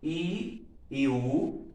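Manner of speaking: I e U drawn out slowly, mouth pushed forward; slow vowel demo. Shown as a demonstration. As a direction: stretch I e U, showing the lips. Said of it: "quando você fala, por exemplo".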